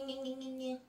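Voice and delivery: little nasal gni gni gni noises; whiny gni sounds. Shown as a demonstration. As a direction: bleat out gni gni gni. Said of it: "quand je fais des gni".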